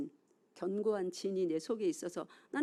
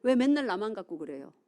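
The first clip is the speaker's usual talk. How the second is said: louder, a petulant whine of protest; mock angry complaint; 6 dB louder than usual. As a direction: sulk back at God like a wronged son. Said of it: "뭐라고 화를 내요?".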